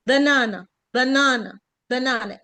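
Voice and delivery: بنانا with first and last A reduced to a weak uh; long middle A, weak schwa either side; schwa in banana. Shown as a demonstration. Teacher modelling banana for learners, outer vowels reduced to schwa. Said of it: "الايه الاولانيه والايه الاخرانيه اتحولوا لشوا".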